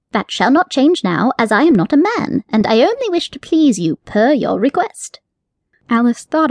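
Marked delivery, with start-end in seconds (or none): 0.1-5.2 lightly raised, prim rabbit voice; a fussy rabbit, pleased with himself; genteel rabbit with a sly wink in the voice. Acted. Rabbit character voice.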